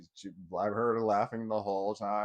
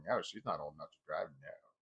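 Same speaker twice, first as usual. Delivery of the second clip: imitating the ex-wife; 8 semitones lower, 7 dB quieter than usual. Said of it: "She was just like".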